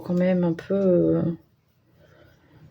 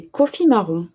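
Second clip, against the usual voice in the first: colour name in a French accent; real French accent on English; 2 semitones higher than usual. Real, not acted. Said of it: "très bel accent anglais".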